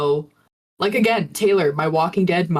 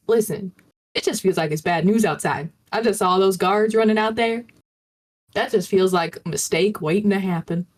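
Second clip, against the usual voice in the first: chill, reasonable fake Southern talk; fake Southern accent. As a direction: reason with them in a put-on Southern voice. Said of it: "doing this, like, fake Southern accent".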